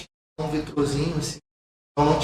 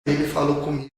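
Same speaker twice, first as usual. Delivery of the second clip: soft voice; 5 dB louder than usual. Shown as a demonstration. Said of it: "Com uma voz suave".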